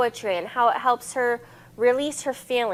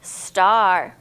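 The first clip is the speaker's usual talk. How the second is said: star said as one clear clapped beat; clapped syllables; 4 semitones lower, 4 dB louder than usual. Shown as a demonstration. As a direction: clap out star as a single beat. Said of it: "Let's try another word".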